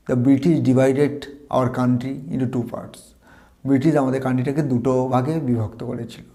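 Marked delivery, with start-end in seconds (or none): 0.1-3.0 very slow, careful English reading; slow model sentence. Shown as a demonstration. Teacher reading an example sentence to students, very slowly. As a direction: spell it out word by word. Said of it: "As a বাক্য হিসেবে বলতে পারি".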